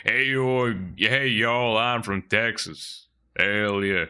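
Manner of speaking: mock Texan drawl, stretched out; Texan accent. Streamer showing how Texans talk, mock Texan accent. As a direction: play a cartoonish Texan accent. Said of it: "kinda like a Texan accent".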